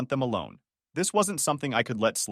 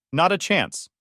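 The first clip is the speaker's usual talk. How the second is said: firm, higher and louder; firmly; 7 semitones higher, 4 dB louder, slower than usual. A narrator's reading. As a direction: say it with total certainty. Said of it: "she said firmly".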